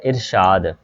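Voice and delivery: इरशाद as ir-shaad, opening on short i; correct pronunciation demo. Shown as a demonstration. Teacher showing the vowel marks, careful demo of इरशाद as ir-shaad. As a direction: carefully sound out इरशाद with i, then long aa. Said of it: "अलिफ के नीचे ज़ेर है".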